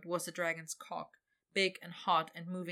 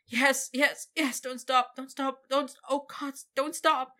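high, loud ecstatic wail; 7 semitones higher, 7 dB louder than usual. Acted. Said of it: "he wailed".

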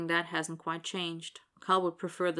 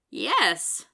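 loud, higher whoop of a yes; hooting; 4 semitones higher, 7 dB louder than usual. A narrator's reading. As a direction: hoot it out in celebration. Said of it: "the smaller man hoots".

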